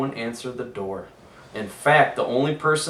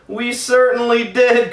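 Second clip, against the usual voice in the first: high, loud happy cry; excited kids; 12 semitones higher, 9 dB louder than usual. A narrator's reading. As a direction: shout it like overjoyed children. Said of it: "cried all the kids".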